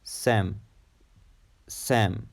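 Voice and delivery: sem said alone as a model; isolated stressed syllable. Shown as a demonstration. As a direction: sound out "sem" as a separate syllable. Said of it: "The stress is in the second syllable".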